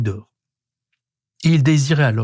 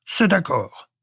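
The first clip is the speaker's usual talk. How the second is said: higher caveman voice, relieved; relieved exclamation; 4 semitones higher, slower than usual. A narrator's reading. Prehistoric man accepting the alligator's deal, relieved. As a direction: agree with relief, in character. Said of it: "s'exclama-t-il, l'air soulagé".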